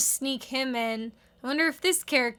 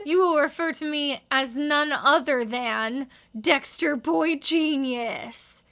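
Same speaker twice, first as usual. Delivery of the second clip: grand Dexter proclamation. Acted. Voicing Dexter from comic.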